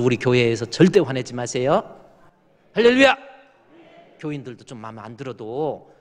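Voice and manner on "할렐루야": high, loud call to the church; high loud hallelujah call; rousing hallelujah. Real, not acted. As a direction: shout it up to the congregation. Preacher rouses the congregation.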